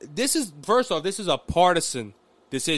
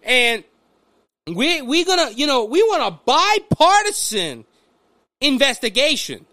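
mock politician in a high Southern voice; folksy Southern announcement, pitched up; Southern accent; 6 semitones higher, 3 dB louder than usual. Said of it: "I'm using my Southern accent".

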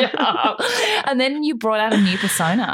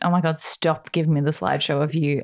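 talking through giggles; stifled giggles. Real, not acted. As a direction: fight back the laughter. Both cracking up, trying to speak.

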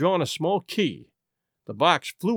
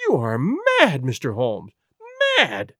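a mildly raised, shocked protest; mild cry; slower than usual. Acted. Lady Hilda to Holmes, caught out, mild cry. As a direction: throw the accusation back at him. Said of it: "she cried at last".

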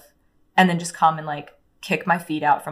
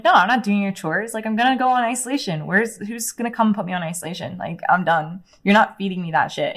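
defiant, higher and quick, reliving the fight; retold angry refusal; 3 semitones higher than usual. Refusing the staff's chores, heated and higher. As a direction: snap back at the staff like a furious teen.

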